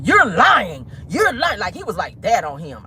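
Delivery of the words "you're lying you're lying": mild mock yell. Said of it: "began yelling at him".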